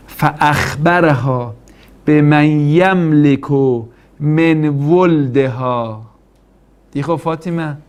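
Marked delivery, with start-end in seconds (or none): 0.1-6.0 slow Arabic recitation. Acted. Preacher recites Arabic hadith text.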